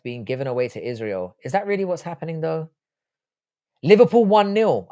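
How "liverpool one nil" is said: high, loud score announcement; triumphant announcement. Real, not acted. Streamer crowing to viewers over Liverpool's lead, triumphant.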